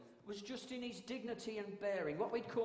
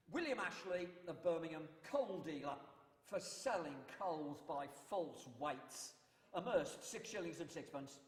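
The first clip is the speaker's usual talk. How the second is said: town crier. Shown as a demonstration. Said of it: "That was a court announcement".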